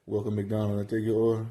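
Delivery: lazy mumbled cashier voice; mumbled drive-thru greeting. Retold or imitated. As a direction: swallow the words like a bored cashier. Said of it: "Like, what you say?".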